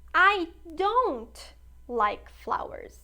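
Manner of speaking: slow, loud classroom demo; slow emphatic model. Shown as a demonstration. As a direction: drill the negative for the class. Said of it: "teacher models negative sentence".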